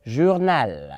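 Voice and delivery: JOURNAL in careful French, "zhoor-NAL"; teacher's careful French "Journal"; carefully pronounced. Shown as a demonstration. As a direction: model "Journal" with a soft ZH and full final L. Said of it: "I want to pronounce it very well".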